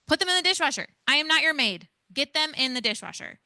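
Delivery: high, loud scolding; yelling parent. Shown as a demonstration. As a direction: snap at the kid like a worn-out parent. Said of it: "I'm going to yell".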